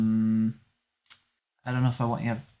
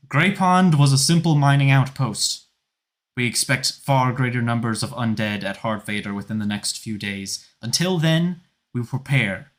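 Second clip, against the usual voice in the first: louder rallying address; loud speech; 4 dB louder than usual. Acted. Felane rallies the crowd against the undead, loud. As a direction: rouse the troops to fight. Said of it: "she says".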